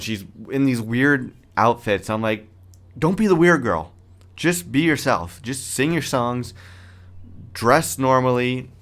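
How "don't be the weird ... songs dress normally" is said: pleading. Retold or imitated. Pleading with the singer in a quote.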